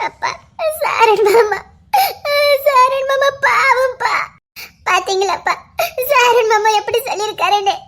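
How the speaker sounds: tearful regret. Acted. Daughter tearful about uncle.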